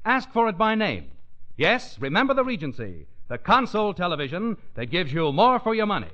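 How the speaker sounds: upbeat announcer selling a TV set; bright radio commercial read; chipper 1950s ad. Acted.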